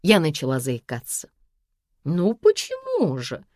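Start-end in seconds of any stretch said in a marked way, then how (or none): 2.0-3.4 slow, drawn-out diva whine; hammed-up capricious mother; capricious actress. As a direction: play the wounded prima donna. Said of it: "включила капризную актрису".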